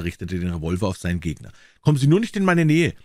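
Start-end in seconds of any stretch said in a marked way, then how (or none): 1.8-2.9 high, loud hoarse shout; hoarse cry. A narrator's reading. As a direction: warn him off, voice cracking with fear. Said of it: "rief Templer heiser".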